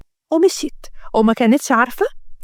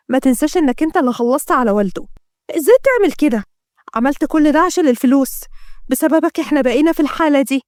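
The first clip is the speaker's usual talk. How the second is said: put-on reproachful, lightly raised girl's voice; accusing daughter; 2 semitones higher than usual. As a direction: confront the father with his guilt. (صوت ابنة تلوم أباها)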